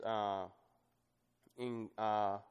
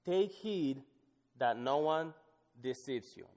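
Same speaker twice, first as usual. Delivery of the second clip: scripture reading; 2 semitones higher than usual. Acted. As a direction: announce the warning, then let it drop. Reads scripture aloud.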